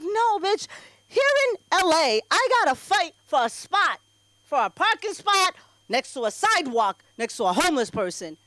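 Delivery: sassy refusal. Retold or imitated. To a woman asking for a cigarette, sassy refusal. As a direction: shut her down with attitude. Snapping at stranger.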